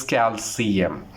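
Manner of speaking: calcium said carefully, stress on CAL; careful teacher's model of calcium; correct pronunciation. Shown as a demonstration. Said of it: "The correct pronunciation is".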